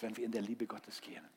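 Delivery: hushed, breathy whisper. Acted. Pastor hushing the room about God's love, whispered. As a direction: drop right down to a whisper.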